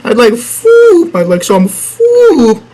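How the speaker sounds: high, slow whine on "food"; a stretched, high "I'd like food"; mock plea. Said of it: "begging for food".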